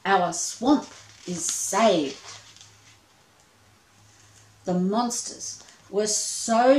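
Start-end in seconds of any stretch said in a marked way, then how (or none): 0.1-2.4 monster voices. Acted. Monsters celebrate.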